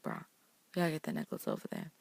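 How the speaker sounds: fast, matter-of-fact, no sympathy; just get on with it, bruh; blunt bruh. Retold or imitated. Emma telling Elsa bluntly to hand the necklace over, quick. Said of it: "but she's like, "Bruh".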